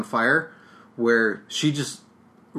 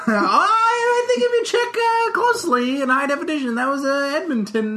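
mock know-it-all high voice; 12 semitones higher than usual. Mock correcting co-host's location.

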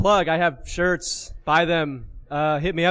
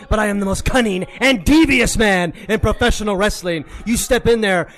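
wrestling promo; 2 semitones higher than usual. Pretend. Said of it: "Peter, would you cut a ro-, uh, promo against Ray?".

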